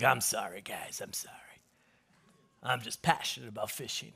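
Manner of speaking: very soft, low mumbled apology; hushed contrite captain, acted out; sheepish apology. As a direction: apologise low, fading almost to nothing. Captain returns to apologise after outburst.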